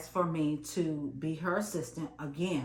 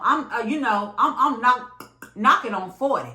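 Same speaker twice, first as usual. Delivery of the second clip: indignant; 4 semitones higher, 7 dB louder than usual. Real, not acted. Indignant at being disrespected.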